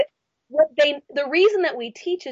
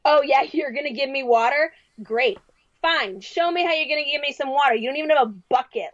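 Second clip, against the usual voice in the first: put-on fed-up woman with a light Brooklyn accent; sarcastic, mildly angry Brooklyn accent. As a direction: challenge him in a tough, quick Brooklyn accent. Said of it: "a Brooklyn accent or something".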